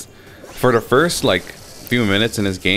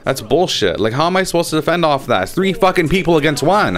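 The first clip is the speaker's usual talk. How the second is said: pissed off; 7 semitones higher than usual. Real, not acted. Gamer protests being targeted by everybody, pissed off. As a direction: complain in exasperated outrage, pitch jumping up. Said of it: "kinda getting pissed now".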